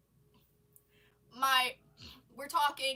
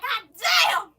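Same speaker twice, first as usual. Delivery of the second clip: high, booming mock astonishment; imitated sister's loud reaction; loud gawking exclamation; 10 semitones higher, 17 dB louder than usual. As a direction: holler it, leaning hard on the last word.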